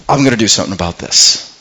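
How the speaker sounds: low, quick, determined statement; understated determination. Retold or imitated. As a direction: state it low, with settled conviction. Acting out young David's resolve.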